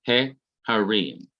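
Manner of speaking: "He" with a short E, then "harim"; a short open E on "He", set apart from "harim". Shown as a demonstration. Teacher shows students the vowel change, short E in "He". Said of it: "vowel changes from pathak to segol, short E".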